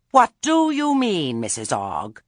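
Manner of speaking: high, loud indignant demand. A narrator's reading. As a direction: demand an answer, pitch leaping up. Challenged by Nanny before everyone.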